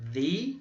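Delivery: The said with a long ee; teacher modelling the word; word demo. Shown as a demonstration. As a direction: say The as thee before a vowel. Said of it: "eu tenho aqui a pronúncia".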